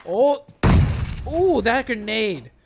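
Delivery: loud, high excited play call. Real, not acted. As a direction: ride the grenade moment with hype. Caster calls a grenade and knock.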